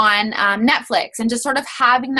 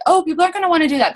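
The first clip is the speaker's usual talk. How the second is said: quick mock nervous worry; 6 semitones higher, much faster than usual. Voices a nervous seller's worry.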